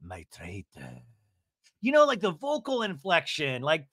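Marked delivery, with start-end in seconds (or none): 0.0-1.0 host it with theatrical relish; Alan Cumming flair. Retold or imitated. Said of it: "Alan Cumming would have been like".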